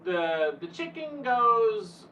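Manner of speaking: put-on halting, drawn-out little girl voice; little girl saying it wrong. Imitating a little girl in the video, mild child voice. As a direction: mimic a small child fumbling the line, slow. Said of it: "She said it wrong".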